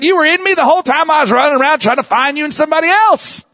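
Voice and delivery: high, fast rush of realization; a lightly voiced excited cry to God; retold cry of discovery. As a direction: blurt it out like a sudden revelation. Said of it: "I'm like, I said".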